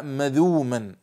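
"مذوما" with a long u and no glottal stop; pronounced without hamza. Shown as a demonstration. Teacher repeating the rare reading for students, without hamza. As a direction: say "مذوما" slowly, letting the hamza drop out. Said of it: "يعني بغير همز".

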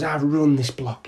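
slow, emphatic tough-guy boast, lightly voiced; imitated threat. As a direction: act out a man claiming his turf. Retelling stranger's threatening boasts.

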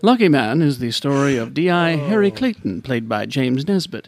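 lightly put-on British newsreader accent; BBC presenter. Host retelling the show's story, mock BBC British presenter. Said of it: "I'll try to read this as a B B C presenter".

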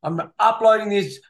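mildly indignant, playful scolding; mock rant. Host scolding Greg about uploading on Christmas, mock rant. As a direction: rant at a listener with mock grievance. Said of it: "Sorry, there's my rant over".

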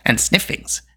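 sniffing, eager creature voice; little beast piping up, pitch swooping; Gurgi, proud then reproachful. A narrator's reading. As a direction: play a loyal creature, boasting then chiding. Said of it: "he added reproachfully".

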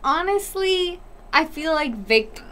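talking through hiccups. Real, not acted. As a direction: hiccups breaking the flow. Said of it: "shut up. The fuck about the hiccups".

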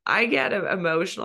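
choked up, breath catching; catching breath midword. Real, not acted. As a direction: lump in the throat, breaking off. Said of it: "I get, like, lump in my throat".

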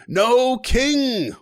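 very high, loud strained yell; dying scream. Acted. Knight run through by a sword, screaming high. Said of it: "as he screams".

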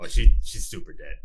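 bright loud answer. Acted. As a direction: blurt it out cheerfully. Player answers cheerfully.

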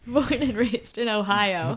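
slow, mock Austrian accent; Schwarzenegger accent. Co-host adding an Ohio birthplace, drawn-out Austrian accent. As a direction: draw out a fake Austrian accent. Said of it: "the accent's getting away from you".

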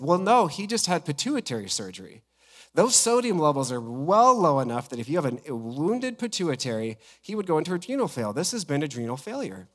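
imitated doctor's emphatic objection; arguing doctor. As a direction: retell a specialist firmly correcting a colleague. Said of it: "they argued with the E R doctor".

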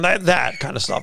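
ordinary talk, nothing marked

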